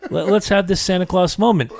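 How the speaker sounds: laughing. Retold or imitated. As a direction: repeat it while cracking up. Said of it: "I was like".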